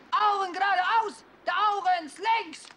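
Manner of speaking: shouted command. Acted. Kommandos an die Truppe.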